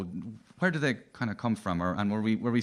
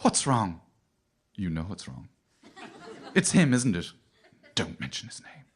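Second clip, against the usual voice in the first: radio play drama; 3 semitones lower than usual. Retold or imitated. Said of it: "it's always".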